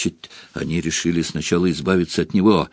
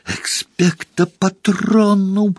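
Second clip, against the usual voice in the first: high, strained yell over the noise; desperate shout; 11 semitones higher, slower than usual. A narrator's reading. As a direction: cry it out with all your strength. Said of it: "надрывался Гарри".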